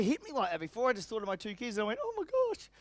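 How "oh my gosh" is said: mock tearful gasp. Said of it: "Should have practiced that one a bit more".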